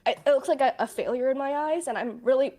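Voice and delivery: trembling voice on the edge of tears; shaky voice. Real, not acted. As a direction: voice shaking with held-back tears. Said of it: "why is my voice shaking".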